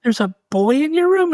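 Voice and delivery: high, sharp incredulous question; as if you can't believe what you heard; disbelief. Retold or imitated. Father hears son's claim.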